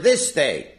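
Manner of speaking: "this day" set apart with firm emphasis; stress on THIS DAY. Shown as a demonstration. Teacher asking why the verse says it, stressing "this day". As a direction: punch both words in "this day". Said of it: "Why do you emphasize the word".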